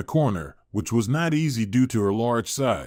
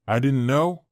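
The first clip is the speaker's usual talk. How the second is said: shouted; 2 semitones higher than usual. A narrator's reading. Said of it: "Jake shouted".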